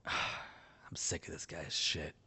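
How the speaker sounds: slow, voiceless grumble under the breath; fed-up whisper. Acted. Soldier whispering to himself about the enemy, fed up. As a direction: hiss it low, done with this guy.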